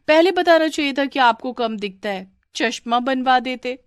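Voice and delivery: mocking taunt. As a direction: make fun of the clumsy one. Mocking the fallen sister-in-law. (चिढ़ाता हुआ ताना)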